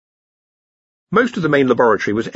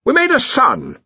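sheepish confession; 4 dB louder than usual. A narrator's reading. Dean's sheepish confession to Ridcully.

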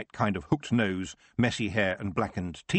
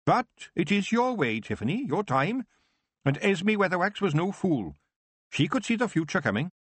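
put-on old witch encouraging Tiffany, pitched up; 9 semitones higher than usual. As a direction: reassure the young witch from on high.

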